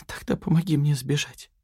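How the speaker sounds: a mildly hammed-up whine; whining plea. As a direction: beg him, whining. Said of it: "проскулила Яна".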